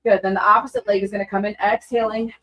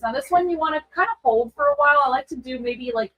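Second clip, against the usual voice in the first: talking while twisting; speaking from a deep spinal twist; in a yoga twist. Real, not acted. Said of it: "nice deep twist".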